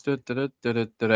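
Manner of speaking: "da, da, da" alternating weak and strong; iambic beat. Shown as a demonstration. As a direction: tap out "da, da, da" as unstressed-stressed pairs. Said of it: "iambic, certainly".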